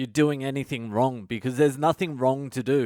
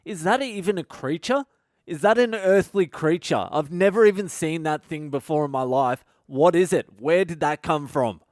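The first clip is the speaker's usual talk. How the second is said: higher, bewildered questioning at a strange creature; baffled disbelief; 3 semitones higher than usual. Retold or imitated. Meditator reacting to a strange creature in his mind, higher and baffled. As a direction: ask it like you can't believe what you're seeing. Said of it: "I'm like".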